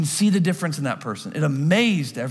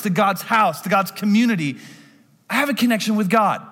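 higher, louder, earnest proclamation; lightly voiced boy Jesus declaring; Jesus revealing; 6 semitones higher, 3 dB louder than usual. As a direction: reveal yourself gently to your parents. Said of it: "he's saying".

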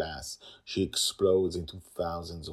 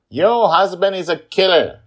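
put-on loud, higher child shout; 14 semitones higher, 16 dB louder than usual. Little girl yelling at her aunt, loud shout. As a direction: yell it at her. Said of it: "Joy shouts at Angela".

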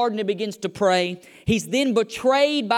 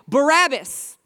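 higher-pitched shouted answer; crowd shout; 4 semitones higher, 4 dB louder, slower than usual. A narrator's reading. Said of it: "The crowd shouted back".

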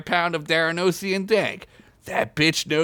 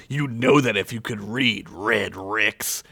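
cool cowboy drawl; 5 semitones lower than usual. Acted. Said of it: "Dan continued".

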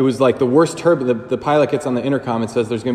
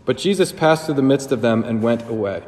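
scripture reading. Acted. Priest reads the Gospel to his listeners, proclaiming. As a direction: proclaim the passage, then settle. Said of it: "It says".

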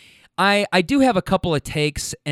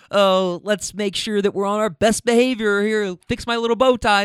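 higher, fussy put-on voice; mock prim; 6 semitones higher than usual. Mocking people who avoid foul language, prim voice. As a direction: mimic someone proper and on best behavior.

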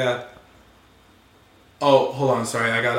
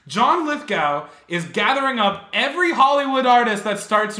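excited; 5 semitones higher than usual. Acted. Mock conspiracy rant about Lithgow.

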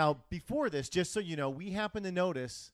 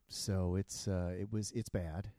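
pilot voice; 5 semitones lower, slower than usual. Retold or imitated. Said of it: "And he's like".

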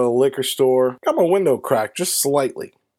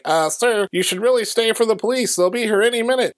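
higher, polite mock homeowner voice; super white dude; 9 semitones higher than usual. Homeowner urging the driver to wait for police, super white dude. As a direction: imitate a proper white neighbor urging someone. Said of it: "this super white dude".

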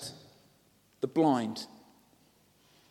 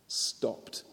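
breathy hushed whisper; 4 semitones lower, 9 dB quieter than usual. A narrator's reading. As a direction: let the word hang in a hush. Repeats the key word.

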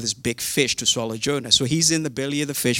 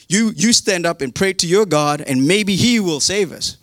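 raised pitch, mock desperation; imitating a worried shipmate; urgent plea; 4 semitones higher, 4 dB louder than usual. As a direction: press a sleeper to act, acted out. Acted sailors pleading with Jonah.

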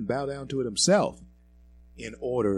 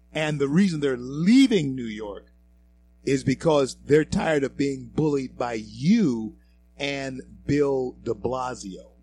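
heated accusation; 4 semitones higher, 7 dB louder than usual. Real, not acted.

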